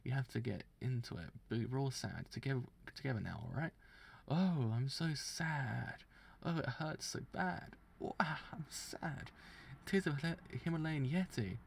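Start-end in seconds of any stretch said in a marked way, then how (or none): 4.3-11.6 slow, high, hammy mock sobbing; fake crying. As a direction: overdo a pretend wail. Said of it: "you gotta pretend to cry with me".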